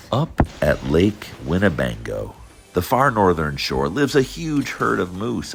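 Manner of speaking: lively storybook read-aloud; reading to children. A narrator's reading. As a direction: read it like bedtime for little kids. Reads Dr. Seuss to children.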